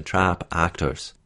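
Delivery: "Trap" and "actors" slowly, with a wide open ah; open ah vowel. Shown as a demonstration. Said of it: "the ah sound in trap and actors is a bit more open".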